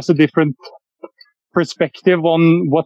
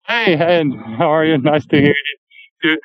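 earpod mic on a phone call; tinny phone audio while walking outdoors; low quality stream. Real, not acted. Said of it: "I'm sorry about the sound quality".

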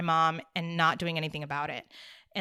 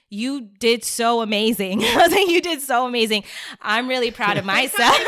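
really choked up, louder, breaking into laughter; tearful laughing; 3 semitones higher, 8 dB louder than usual. Real, not acted. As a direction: let proud tears spill into a loud laugh. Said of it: "Rosie and I are both crying".

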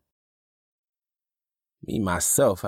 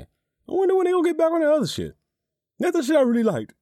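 high wistful inner voice; 6 dB louder, faster than usual. Retold or imitated. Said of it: "then you left thinking".

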